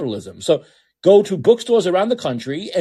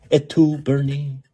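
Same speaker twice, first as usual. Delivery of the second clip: mock tragic Caesar; 2 semitones lower, slower than usual. Shown as a demonstration.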